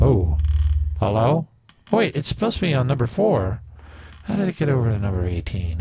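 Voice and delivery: alien-sounding voice effect. Real, not acted. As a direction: voice through a strange audio effect. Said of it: "I sound like an alien".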